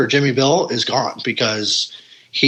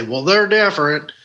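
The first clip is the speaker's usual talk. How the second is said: put-on hillbilly accent; 2 semitones higher than usual. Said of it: "some crack jaw hillbilly to say".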